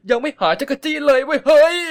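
loud, high flustered yelp; flustered outburst. Acted. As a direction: blurt it out, rattled and ticklish. Flustered after being nuzzled.

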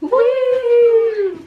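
loud, high whoop; cheering shout. Real, not acted. Cheering the matching dresses.

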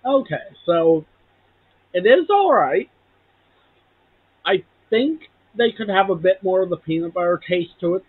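nibbling between words; talking while chewing. Real, not acted. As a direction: mouth partly full. Seen 0: holds small chocolate piece at lips, nibbling, throughout speech.

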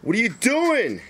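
alarmed outburst. Acted. Moses reacts to thrown laptop.

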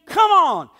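urging them to go all in; mock insistent plea; pushy pleading. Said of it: "would contend".

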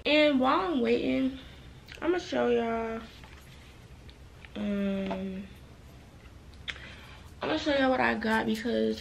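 talking around a retainer; words muffled by a retainer; wearing a retainer. Real, not acted. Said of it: "ignore how I'm talking. I have my retainer in".

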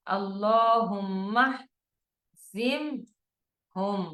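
very slow, "আল্লাহুম্মাহজিমহুম" one word, hamza dropped; খুব ধীরে টেনে এক শব্দে মিলিয়ে পড়ুন; joined reading. Shown as a demonstration. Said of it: "একসাথে যদি আমরা মিলিয়ে পড়ি". (হামজাতুল ওয়াসল বাদ দিয়ে মিলিয়ে, খুব ধীরে)

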